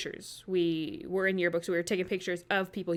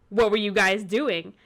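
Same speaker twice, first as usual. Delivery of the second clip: teacher's suspicious question; 7 dB louder than usual. Retold or imitated. Teacher catching them.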